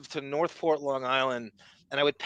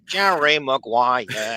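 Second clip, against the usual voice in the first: slow drawn-out; 4 semitones lower, 4 dB louder, much slower than usual. Acted. Drawn-out movie title callback.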